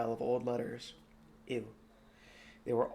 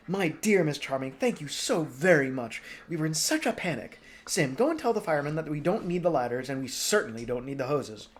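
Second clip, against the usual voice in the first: lightly voiced brisk princess; 3 semitones higher, 4 dB louder than usual. Princess thanking, ordering.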